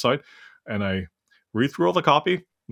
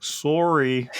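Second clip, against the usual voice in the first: put-on Canadian accent; 5 semitones higher than usual. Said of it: "in your best Canadian accent".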